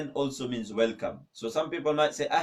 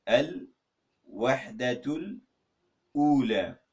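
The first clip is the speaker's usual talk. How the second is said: Al-Wahdatul drawn out very slowly, then Ula; syllable by syllable; much slower than usual. Shown as a demonstration. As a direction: break Al-Wahdatul Ula into two slow parts. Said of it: "let me say it".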